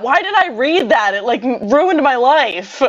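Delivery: high-pitched, dramatic lament; exaggerated dismay. Real, not acted. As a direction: wail it in mock anguish. Mock anguish over something read.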